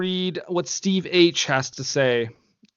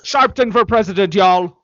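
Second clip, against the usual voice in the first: excited endorsement; 3 semitones higher, 6 dB louder than usual. Pretend. Mock endorsement shout.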